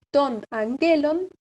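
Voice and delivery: slow ton angelon, stressed on GE; accent moved along. Shown as a demonstration. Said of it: "corre un lugar el acento".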